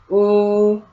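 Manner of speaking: Ooh held long for learners to copy; drawn-out demo Ooh. Shown as a demonstration. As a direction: sustain Ooh as a rounded W sound. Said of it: "Try it with me".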